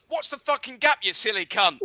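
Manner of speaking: high-starting mock local's retort; Maidstone local. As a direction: imitate a rude Maidstone heckler. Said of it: "if you ever come to Maidstone".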